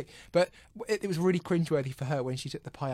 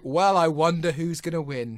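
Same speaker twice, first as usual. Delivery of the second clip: mock wondering; 6 dB louder, slower than usual. Mock musing about a foregone final.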